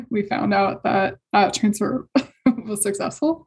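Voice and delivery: real happy near-crying, with small breathy laughs; happy tears. Real, not acted. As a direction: get tearful sharing long-awaited good news. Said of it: "still can't say that without crying".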